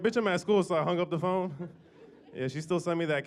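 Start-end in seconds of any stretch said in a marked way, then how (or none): 0.0-0.6 retorting. Retold or imitated. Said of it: "I was like".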